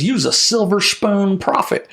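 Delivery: lightly voiced old preacher pronouncing a verdict; imitated scolding elder. Elder preacher sizes up young prophet, mock scolding.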